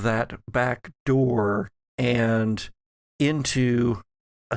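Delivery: slow, measured scene setting; game master narration. A narrator's reading. Game master describes the storm to the players, slow and measured. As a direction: paint the storm slowly for the players.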